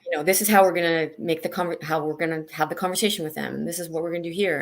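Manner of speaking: brisk, fast, in-control inner voice; take-charge self-talk. Retold or imitated. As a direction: rattle off the plan like a manager taking over. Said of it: "the control came in".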